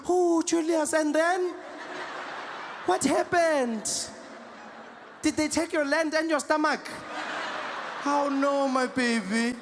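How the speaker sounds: high, drawn-out motherly wail; hammed-up distressed African mother; mom shocked at skinny child. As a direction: fuss over your child in mock dismay. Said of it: "I felt like a mom seeing her child skinny".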